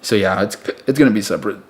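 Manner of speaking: talking through hiccups; hiccuping between words. Real, not acted. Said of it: "Excuse me, I got the hiccups".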